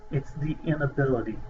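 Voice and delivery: "inability" given the main weight, falling to close; stress on inability. Shown as a demonstration. Lecturer telling students the key word, stressing "inability". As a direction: land firmly on "inability". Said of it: "why am I emphasizing the word the inability".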